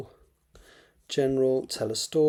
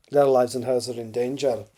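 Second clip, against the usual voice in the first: put-on amateur Scottish accent, slightly louder; terrible Scottish accent; 5 dB louder than usual. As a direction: have a shaky go at a Scottish accent. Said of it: "Sorry about the terrible Scottish accent".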